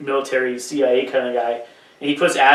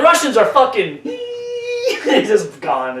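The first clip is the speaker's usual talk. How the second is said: high squeal of laughter cutting off; laughing break; 10 semitones higher, much slower than usual. Pretend. Friends joke about cutting the Russian part, laughing squeal. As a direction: laugh so hard the words vanish. Mock censored clip, laughing.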